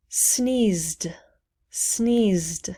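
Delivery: "sneezed" as one syllable ending in ZD; silent E. Shown as a demonstration. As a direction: say "sneezed" with no E sound. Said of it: "We do not pronounce the E".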